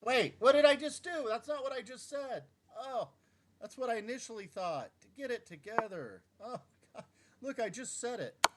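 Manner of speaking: high, loud panicked shout at his own blunder; frantic disbelief. Real, not acted. Player reacting to his own blunder, high panicked shout. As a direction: yelp in horror at the misplayed move.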